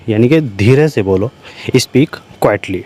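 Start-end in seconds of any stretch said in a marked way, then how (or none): 1.8-2.8 slow dictation. Shown as a demonstration. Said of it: "teacher dictates English phrase".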